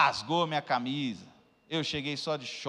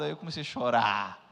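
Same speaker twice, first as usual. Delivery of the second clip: usual speaking voice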